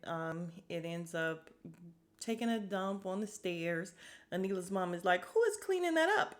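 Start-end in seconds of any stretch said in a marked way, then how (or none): 5.2-6.3 loud, very high-pitched demand; hammed-up indignant question; imitated appalled mom. Voices mom appalled at cow mess.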